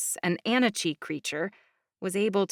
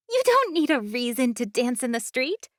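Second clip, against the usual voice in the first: put-on girl voice; 5 semitones higher than usual. Mischievous young girl speaks.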